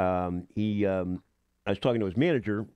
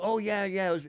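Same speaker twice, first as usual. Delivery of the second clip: imitating girl; 11 semitones higher than usual. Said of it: "She goes".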